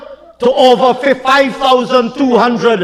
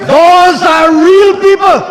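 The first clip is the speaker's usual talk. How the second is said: accusing; 5 semitones higher than usual. Real, not acted. Accusing opposition benches in parliament.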